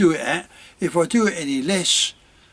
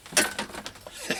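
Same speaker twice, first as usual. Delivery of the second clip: slurping tea; 9 dB quieter than usual. Real, not acted. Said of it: "that was slurping me tea".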